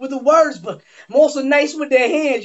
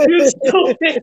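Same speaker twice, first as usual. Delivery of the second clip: laughing; 3 semitones higher, much slower than usual. Real, not acted.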